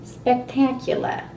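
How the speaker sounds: mock praise for her own blunder; sarcastic. Real, not acted. Judging her gym blunder, drawing it out sarcastically.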